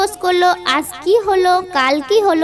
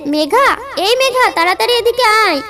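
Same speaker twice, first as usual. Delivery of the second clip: urgent shout; 6 semitones higher than usual. A narrator's reading. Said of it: "আম্মু চিৎকার করে আমাকে ডেকে বলছে".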